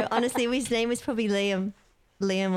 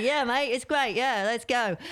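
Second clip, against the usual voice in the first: upbeat broad Aussie mate-talk; easygoing Australian, lightly exaggerated; broad Australian accent; 3 semitones higher, slower than usual. Shown as a demonstration. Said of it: "it's that kind of broad accent".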